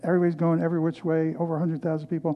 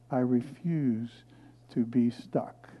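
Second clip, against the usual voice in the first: quiet resolve; 3 semitones lower, 6 dB quieter, slower than usual. Retold or imitated. Quiet firm declaration.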